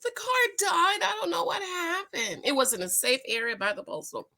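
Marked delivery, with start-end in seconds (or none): 0.0-2.4 retold worried call. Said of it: "I said".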